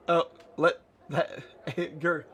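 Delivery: reading broken by giggles; real laughter. Real, not acted. Reader tells Nanny to calm down, cracking up. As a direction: struggle through the line laughing.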